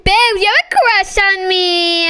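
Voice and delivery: mocking imitation. Mocking imitation traded between friends.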